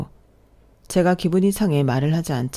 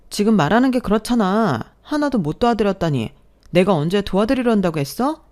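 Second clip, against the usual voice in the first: raised, louder, firing back at him; angry retort; 4 semitones higher, 3 dB louder than usual. Acted. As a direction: snap back at the boyfriend in disbelief. Couple quarrel, she pushes back. (남자친구에게 따지듯 높고 큰 목소리로 쏘아붙임)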